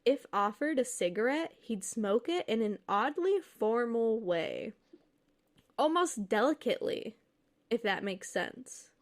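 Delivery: measured read-aloud storytelling voice; story narration. A narrator's reading. Reads a posted ghost story aloud.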